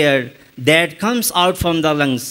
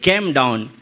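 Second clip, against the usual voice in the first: Indian accent; 6 semitones lower than usual. Shown as a demonstration. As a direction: say "Came down" in an Indian accent, low-pitched. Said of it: "we Indians say in our accent".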